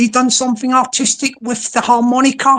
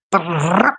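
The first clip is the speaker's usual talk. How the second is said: imitated trill; 5 semitones lower than usual. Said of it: "a sort of a trill voice".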